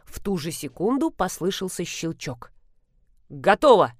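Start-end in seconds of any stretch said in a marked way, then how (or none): 3.3-3.9 delighted. A narrator's reading. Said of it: "обрадовался Зотов".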